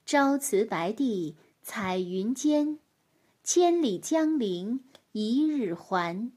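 slow, measured poem recital; poem recitation. Acted. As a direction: recite each line slowly.

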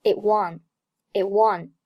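"it won" with the t of "it" held back; unreleased t. Shown as a demonstration. Teacher shows 失去爆破, "it won" with unreleased t. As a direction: stop the t silently, move on to "won". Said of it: "爆破音t失去爆破".

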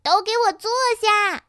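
high, loud yelled command; loud roar. A narrator's reading. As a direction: roar the order at an unruly crowd. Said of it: "于是子越大声地吼了一声". (大声吼着下命令)

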